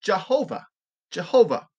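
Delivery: "Jehovah" said as juh-HOH-vuh; pronouncing Jehovah. Shown as a demonstration. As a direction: set out "Jehovah" alone, stressed on HO. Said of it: "many come up with".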